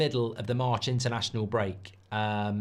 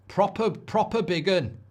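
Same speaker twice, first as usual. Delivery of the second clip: slow, higher Scouse drawl; jokey Scouse accent; mock Scouse accent; 6 semitones higher, 3 dB louder, slower than usual. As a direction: play it like a Liverpool lad. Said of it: "That's Scouse".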